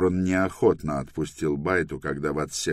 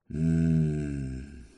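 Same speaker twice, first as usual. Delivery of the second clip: groan; 3 dB quieter than usual. Acted. Husband groans as his wife strokes his hair, soft groan. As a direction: groan through closed lips. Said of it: "простонал он".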